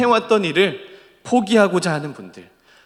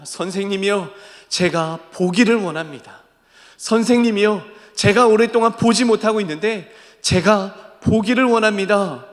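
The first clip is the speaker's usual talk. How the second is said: imploring request that builds higher; earnest pleading; 3 semitones higher than usual. Acted. Preacher as blind Bartimaeus begging Jesus for sight, earnest plea. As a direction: plead from the heart, rising as it repeats. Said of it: "예수님 앞에 간절히 이야기합니다".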